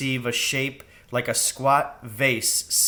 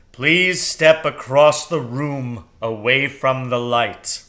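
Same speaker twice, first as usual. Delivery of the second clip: loud, slow owl voice; stately owl directing; 6 dB louder than usual. Acted.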